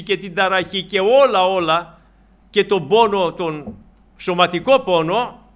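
loud, emphatic preacher's delivery; impassioned preaching. Real, not acted. Preacher assuring the congregation that Christ has felt everything, impassioned. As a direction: preach it with full force, hitting key words hard.

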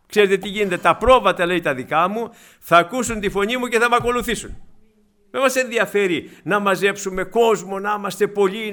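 loud, insistent sermon delivery; emphatic preaching. Real, not acted. Preacher reminding believers whose voice sheep follow, emphatic. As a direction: drive it home to the congregation.

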